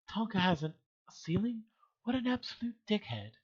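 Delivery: high-pitched British lady; effeminate, high British put-on voice; British woman's voice. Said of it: "Why am I making Red Feather British?".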